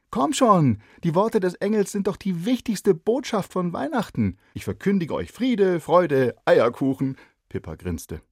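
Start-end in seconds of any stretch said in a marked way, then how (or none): 0.1-7.2 put-on high, loud girl's voice; a bright neighbour girl asking; lively girl. Neighbour girl asks shy boy why not, lively. Pippa's voice.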